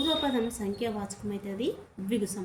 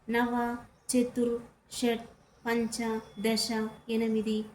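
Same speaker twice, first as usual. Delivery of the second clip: slow listing; slower than usual. Shown as a demonstration. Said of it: "అనేవి ఏంటి?".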